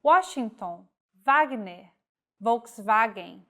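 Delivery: W said as in the source language; W read the foreign way; W as in origin. Shown as a demonstration. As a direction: Washington with U, Wagner and Volkswagen with V. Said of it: "follows the pronunciation of the language of origin".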